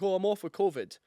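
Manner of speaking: lightly voiced feigned illness; mock sick-note excuse. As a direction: fake the poorly customer. They'd be like.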